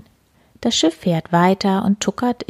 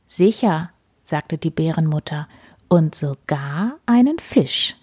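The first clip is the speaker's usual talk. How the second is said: gentle storyteller with voiced animals; reading to children. A narrator's reading. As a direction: read it cosily to little listeners. Reads bedtime story aloud.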